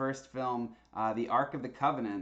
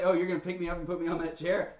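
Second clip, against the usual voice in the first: fast, higher-pitched mock disbelief; voicing reluctant co-host; 5 semitones higher, much faster than usual. Host voicing the co-host asked onto the chair, mock disbelief. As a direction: quickly voice her mock surprise. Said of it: "She was like".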